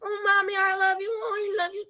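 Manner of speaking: put-on high, soft, sweet-talking child; soft clingy child voice. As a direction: coo it like a clingy little kid, fading away. Mom voicing her clingy child.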